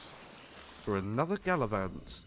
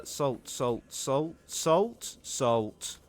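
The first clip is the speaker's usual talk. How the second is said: slimy snail voice; timid little snail; very slow slimy snail voice; 4 semitones higher, 5 dB louder, much slower than usual. Acted. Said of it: "I sound like a snail that is scared".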